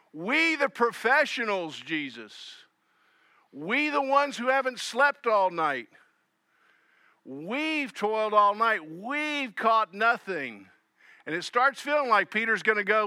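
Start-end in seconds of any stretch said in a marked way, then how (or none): 0.1-10.7 mild indignant professional pride; a touch of weary protest from the fishermen; Peter, indignant. Retold or imitated. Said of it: "it feels like Peter is saying".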